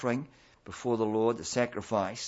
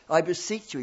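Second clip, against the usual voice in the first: pleading; 6 semitones higher, 4 dB louder than usual. Acted. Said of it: "he pleads with them".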